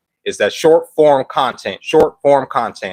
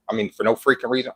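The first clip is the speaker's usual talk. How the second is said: quick quiet correction; 6 dB quieter, faster than usual. Real, not acted. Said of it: "Oh my God, I already cussed".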